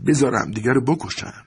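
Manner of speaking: high-pitched, understated disgust. A narrator's reading. Maria to husband about the brawlers, with mild loathing. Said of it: "ماریا با تنفر گفت".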